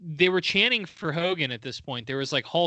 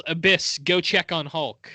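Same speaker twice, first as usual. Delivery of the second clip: mild mock yell, slightly raised; retold yell; 3 dB louder than usual. Host retelling Bully Ray sending a teammate, mild mock yell. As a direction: call it out like a half-hearted order. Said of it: "he yells".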